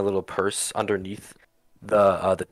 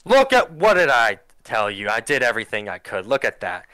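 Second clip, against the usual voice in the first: vindicated mayor; 4 dB louder than usual. Acted.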